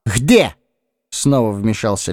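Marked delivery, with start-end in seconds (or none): 0.0-0.5 Lis voice. Acted.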